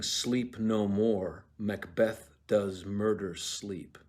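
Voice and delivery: very slow, ominous delivery; a hint of an unseen voice, drawn out; eerie voice. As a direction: intone it like a ghostly voice. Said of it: "a voice saying".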